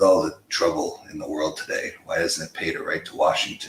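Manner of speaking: put-on gravelly voice. Retelling a question from a first interview guest: gravelly rock-singer voice. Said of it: "he had the gravelly voice".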